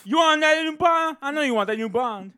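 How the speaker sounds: mock street hawker. Bootleg seller voiced.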